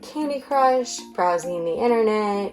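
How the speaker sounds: muffled behind a mask; talking through a face mask. Real, not acted. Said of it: "why I'm wearing a mask right now".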